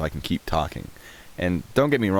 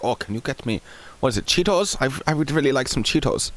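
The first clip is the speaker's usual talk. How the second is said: higher-pitched, hammed-up German accent; mock German accent; 9 semitones higher than usual. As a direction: imitate Germans politely begging in a thick accent. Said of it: "That's probably a really offensive accent".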